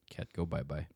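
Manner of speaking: whispered aside, no voice; soft hushed whisper. Real, not acted. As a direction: breathe it out, just air. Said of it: "whispered aside".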